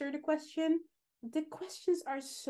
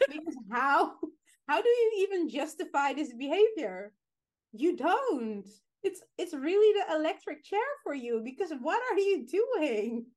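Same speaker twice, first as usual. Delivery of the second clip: raised, emphatic scolding; mock-outraged rant; 5 semitones higher, 4 dB louder than usual. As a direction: scold them in hammed-up disbelief. Mock rant at letter writers.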